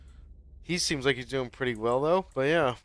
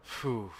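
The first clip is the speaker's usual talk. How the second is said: short "phew" after a scare; relieved exhale. Real, not acted. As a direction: let the breath out in relief. Relief after nearly dying in game.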